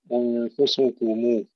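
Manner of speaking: slow أنفسكم ending in a clear rounded "mu"; full damma on mim. Shown as a demonstration. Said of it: "تحقيق ضمة الميم". (أنفسكم بتحقيق ضمة الميم)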